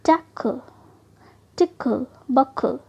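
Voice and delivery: टक, टिक, बक each slow, with a separate -kul ending; divided before LE. Shown as a demonstration. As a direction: sound out टक, टिक, बक as tack-kul, tick-kul, buck-kul. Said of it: "L E से पहले ही हम उसे word को divide कर देंगे". (टक, टिक, बक के अंत में अलग से कल जोड़कर धीरे बोलें)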